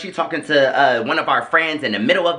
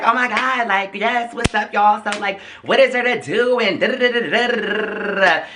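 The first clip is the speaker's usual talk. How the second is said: high mock-bubbly chatter, much higher; mimicking a bubbly stranger; 6 semitones higher than usual. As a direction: imitate the pushy party girl, up high. Mimicking the bubbly woman again.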